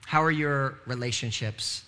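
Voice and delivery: each word drawn out slowly; slowed, searching question; slow, deliberate repeat. Shown as a demonstration.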